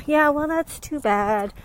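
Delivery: lightly put-on resigned voice; mock excuse-making. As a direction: act out shrugging off the problem. Voicing people's self-limiting excuses.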